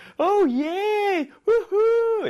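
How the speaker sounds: very high, loud whooping holler, "yeah" drawn out. Retelling jumping up and down at unbelievable news, retelling hooting and hollering. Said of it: "이렇게 hooting and hollering".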